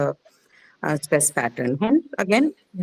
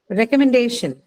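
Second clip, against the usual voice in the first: recommendation with DAY higher, then falling; stress on day; 4 semitones higher than usual. Shown as a demonstration. Teacher models recommendation for the class, stressing DAY. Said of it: "Day is the syllable that is stressed".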